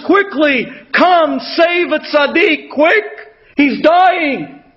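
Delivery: high, drawn-out call for help; mildly acted emergency cry; retold urgent scream. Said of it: "he screams to the doctors".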